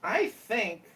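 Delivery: put-on Indian accent. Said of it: "new, uh, accent for you?".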